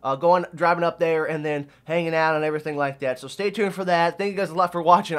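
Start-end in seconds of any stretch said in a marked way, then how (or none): 3.2-5.2 breathless from talking; words short on air; out of breath. Real, not acted. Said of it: "I'm out of breath".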